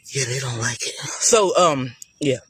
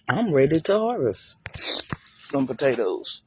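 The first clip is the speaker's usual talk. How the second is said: hushed, eager whisper. Real, not acted. Gardener whispering to viewers about harvesting potatoes. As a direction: whisper it like a secret treat.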